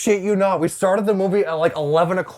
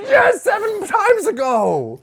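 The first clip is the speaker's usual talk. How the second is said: slow mock sarcasm; 13 semitones higher, much slower than usual. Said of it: "I'm like".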